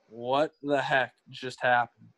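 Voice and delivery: slow, stunned deadpan retelling; dumbfounded, slowly spaced-out words; stunned disbelief. Retold or imitated. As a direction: draw it out in mild mock bewilderment. Acts out stunned reaction to ambush.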